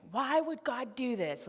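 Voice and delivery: a child's anguished cry, re-enacted mildly; retold scream. Retelling how she screamed at her dad about God, mock cry. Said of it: "I start screaming".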